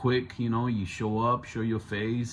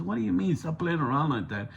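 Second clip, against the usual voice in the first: mild mock annoyance, pitched up at the start; retold anger; 6 semitones higher, faster than usual. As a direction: imitate someone getting mad, without raising the volume. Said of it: "he started getting mad".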